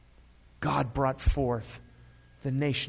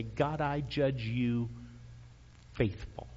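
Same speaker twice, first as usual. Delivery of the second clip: 1 bold declaration; 3 semitones lower, 7 dB quieter, slower than usual. Acted. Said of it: "stick your finger in my nose and say".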